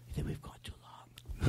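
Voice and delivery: breathy whisper, barely audible. Real, not acted. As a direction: whisper it like a secret aside.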